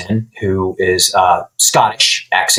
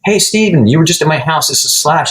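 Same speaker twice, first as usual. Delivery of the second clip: imitating a famous guitarist; 7 semitones higher than usual. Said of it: "And it's like".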